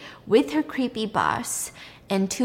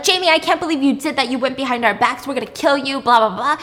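mock angry scolding; 4 semitones higher, 4 dB louder, faster than usual. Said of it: "And they're like".

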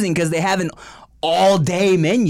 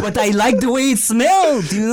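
amused mock-French accent, higher; 3 semitones higher than usual. Defending the scent in a fake French accent. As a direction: protest in a playful French accent. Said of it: "we are talking in French".

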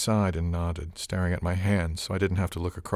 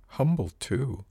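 higher-pitched, lightly teasing; gently mocking amusement; 6 semitones higher, slower than usual. A narrator's reading. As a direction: tease gently, with a hint of amusement. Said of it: "a hint of gently mocking amusement".

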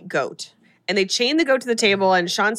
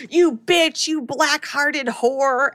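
mock creature scream, higher and drawn out; screaming goat creature; 4 semitones higher, much slower than usual. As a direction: stretch the insults like a possessed goat. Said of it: "goat creature who screams".

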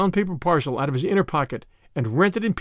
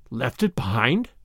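slow, lower echoed question; triumph faltering; 4 semitones lower than usual. A narrator's reading. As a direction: repeat it slowly, triumph giving way to doubt. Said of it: "another note in his voice beside his triumph".

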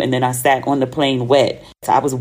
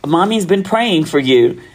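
lightly voiced mom, slow and a little higher; imitated mom, unhurried; retold mother; 4 semitones higher than usual. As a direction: draw it out like a concerned mother. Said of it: "And she was like".

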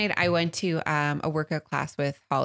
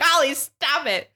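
high, loud plea to a friend; urgent yell; 10 semitones higher, 5 dB louder, slower than usual. Retold or imitated. Passengers yelling to Holly as the car rolls, urgent yell. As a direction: call out sharply, pitched way up.

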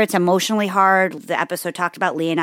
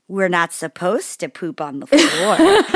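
put-on condescending toddler; slower than usual. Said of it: "condescending, shitty tone".

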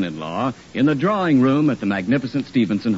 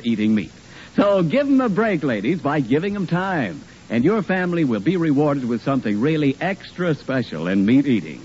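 ad read; 2 semitones higher than usual. Acted. Commercial read by announcer.

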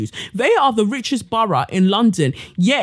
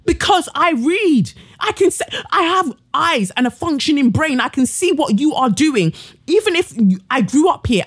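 higher, forceful defiance; defiant outburst; 4 semitones higher than usual. Real, not acted. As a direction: fire it back at the critics. Defiant reply to critics.

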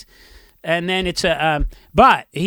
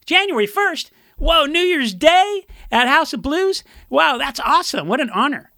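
excited; 9 semitones higher than usual. Retold or imitated. Bandmate thrilled by New Year gig.

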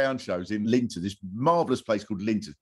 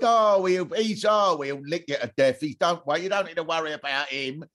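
Pablo Escobar reassuring; 4 semitones higher than usual. Retold or imitated. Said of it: "he's going".

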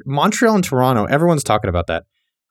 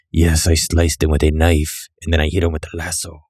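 cowboy voice; 9 semitones lower than usual. Retold or imitated. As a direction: play a rough cowboy bragging. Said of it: "that guy sounds like a cowboy".

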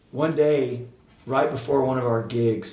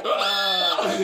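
mock yelp; 7 semitones higher than usual. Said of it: "He was like".

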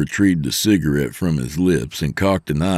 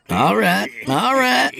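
very high put-on youngster voice; exasperated young trainee. Trainee fending off mother jokes, exasperated. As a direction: cut off the teasing in a high voice. The trainee gives in to teasing.

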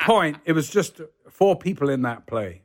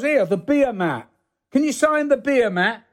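higher-pitched fan's request; lightly voiced lorry driver; 9 semitones higher than usual. Lorry driver offers a beer mat to sign, lightly voiced eagerness. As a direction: lightly imitate an eager autograph hunter.

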